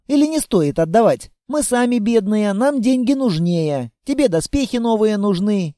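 put-on a small girl babbling on and on; chatty little girl.

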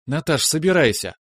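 the wife firmly telling the intern to pack up; firm decision. A narrator's reading. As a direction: settle it firmly, no arguments. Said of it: "решительно заявила".

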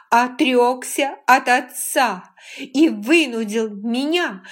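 put-on a furious young woman lists his betrayals; furious accusation. A narrator's reading. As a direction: lay out each charge with trembling rage. Rachel's furious slow accusation.

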